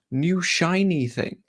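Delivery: high, slow, drawn-out mock awe; mock excitement. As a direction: coo as if dazzled by a new toy. Mimicking excitement over a new player.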